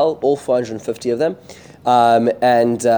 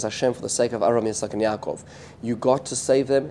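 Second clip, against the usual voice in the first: softer, hushed appeal; understated prayer, voice dropping softer; retold plea; 5 dB quieter than usual. Eliyahu's prayer to God, retold.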